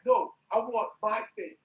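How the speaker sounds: retold fury, pitch spiking high; angry demand. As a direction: lay down the law to them. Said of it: "that sounds pretty angry".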